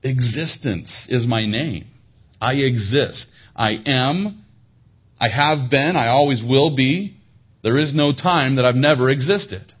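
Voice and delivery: voicing God in bold proclamation; preaching at full force. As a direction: thunder it from the pulpit.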